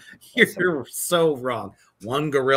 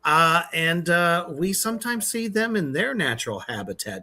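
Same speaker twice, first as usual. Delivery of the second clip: nature documentary intro. Pretend. Mock documentary lead-in.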